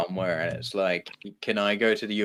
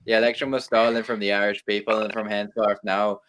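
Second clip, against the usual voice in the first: lightly done Irish accent, hammed rebel talk; mock Irish republican in a faint Irish accent. Full Irish rant for laughs, Irish accent. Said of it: "Let me give full Irish here".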